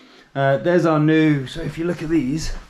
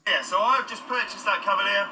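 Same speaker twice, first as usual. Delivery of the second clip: same line again, higher but much softer; quiet repeat; 6 semitones higher, 6 dB quieter than usual. Shown as a demonstration. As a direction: echo the earlier reveal under your breath. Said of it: "It's like a dream in a dream".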